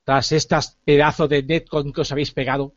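Flame, dark lord. Acted. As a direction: threaten them like a vengeful underworld god. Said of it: "Soy Flame".

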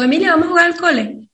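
fast laughing call to play; laughing invite. Retold or imitated. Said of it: "Le digo".

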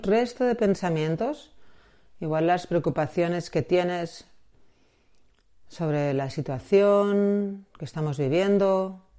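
unhurried meditation guide with long pauses; guided meditation. Acted. Guide asking listener to close the eyes and find the breath, guided meditation. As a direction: ease the listener into calm, phrase by phrase.

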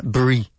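BRIE as an isolated "bree"; teacher's model syllable "Brie"; syllable drill. Shown as a demonstration. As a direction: drill the ending "Brie" with a clear b. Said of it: "It's strawberry".

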